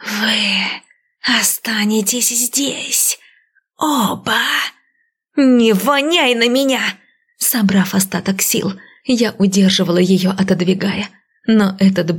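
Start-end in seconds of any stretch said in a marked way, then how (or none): 0.0-6.8 slow eerie hiss of a corpse; a monster hissing in her face; menacing hissed threat, slow at first; hissing undead. A narrator's reading. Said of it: "она зашипела мне в лицо".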